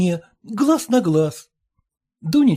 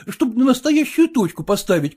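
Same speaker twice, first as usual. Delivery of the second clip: ordinary delivery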